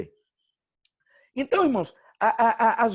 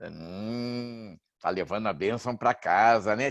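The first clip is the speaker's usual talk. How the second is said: low, smug mock voice; lightly voiced smug pastor; smug pastor imitation; 9 semitones lower than usual. Pastor's smug line, low far voice. (pastor convencido imitado, voz grave e debochada)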